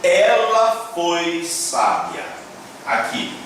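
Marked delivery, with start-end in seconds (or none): 0.0-2.2 slow, careful read-aloud. Shown as a demonstration. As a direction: read each word slowly. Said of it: "está escrito".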